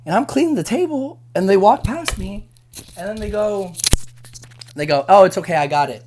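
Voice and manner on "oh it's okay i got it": imitating a curt, annoyed brush-off; a touch of snark, a bit louder; mock snarky. Coworker grabbing the refill herself, mildly snarky. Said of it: "all snarky and all mad".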